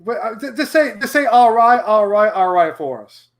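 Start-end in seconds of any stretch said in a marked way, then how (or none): 1.2-2.8 light catchphrase impression, starting louder and falling away; Matthew McConaughey. Shown as a demonstration. Host asking caller to say the line, light impression. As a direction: lightly mimic the actor, easing down on each repeat. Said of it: "I would love to sound like Matthew McConaughey".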